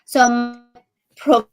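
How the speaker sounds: choppy, cutting-out internet audio; words breaking up over a bad connection; buffering stutter. Real, not acted. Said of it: "you cut out there".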